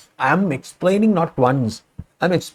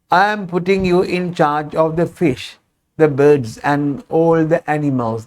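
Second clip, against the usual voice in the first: deliberately slowed, careful reading pace; slowed classroom pace. Shown as a demonstration. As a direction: drop the speed and talk like a textbook. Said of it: "That is not my natural pace".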